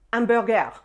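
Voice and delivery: "hamburger" the French way, silent H, ending "-gair"; French accent. Shown as a demonstration. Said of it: "say them with the French accent".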